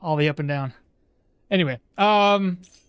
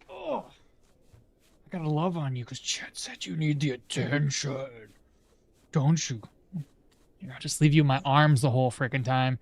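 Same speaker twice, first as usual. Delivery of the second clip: cooing to dog; 5 semitones lower than usual. Real, not acted. Streamer cuddles the dog for chat, low and doting. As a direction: lower your voice and dote on the dog.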